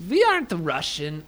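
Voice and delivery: badly faked Russian accent; amateur mock Russian accent; attempted Russian accent. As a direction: have a shaky go at a Russian accent. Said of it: "can't even do a Russian accent".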